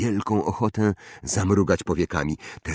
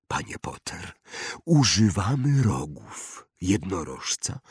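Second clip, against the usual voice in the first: wandmaker, solemn explanation. Acted. (powolny, tajemniczy wykład wytwórcy różdżek)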